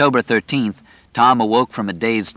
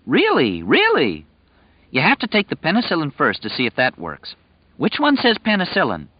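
lightly raised, earnest simple man; simple earnest young man; 7 semitones higher than usual. Acted. Tom insisting on the medicine.

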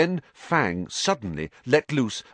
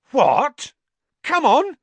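loud, much higher, eager; Harry hurries after Ron to the car; excited shout; 9 dB louder, slower than usual. A narrator's reading. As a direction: call out, rushing toward the light.

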